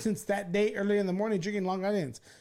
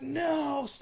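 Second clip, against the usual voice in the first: mock yell; 9 semitones higher than usual. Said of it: "I'm screaming in the car".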